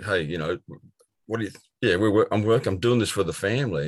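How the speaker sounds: mock-defensive husband; defensive protest. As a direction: push back, defending yourself. His defensive reply retold.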